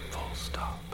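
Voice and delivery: whispered punctuation aside; whispered dictating. Acted. Torturer dictating his own punctuation.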